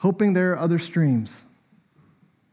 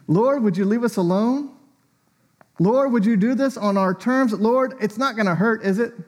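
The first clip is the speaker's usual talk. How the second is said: wary pleading; 4 semitones higher than usual. Acted. Acts out our wary prayers.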